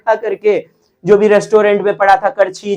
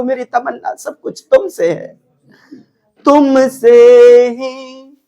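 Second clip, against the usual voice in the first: lovelorn plea; 4 semitones higher than usual. Shown as a demonstration. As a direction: beg a beloved not to leave, tenderly. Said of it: "प्रेम की बातें".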